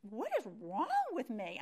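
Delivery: loud imitation of tearful exasperation; retold crying outburst. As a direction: wail it loudly, as if mid-cry. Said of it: "I was crying so hard".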